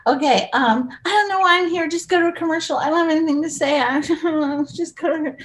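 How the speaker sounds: lightly voiced flustered talk show guest; quick impression for Carson to guess; Teri Garr impression. Shown as a demonstration. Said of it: "Can I do some and you guess who they are".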